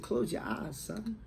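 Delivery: mild motherly coaxing, easing off at the end; gentler repeated instruction. Retold or imitated. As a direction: repeat it lightly, lifting softly on the last word. Mother repeats it after "What?.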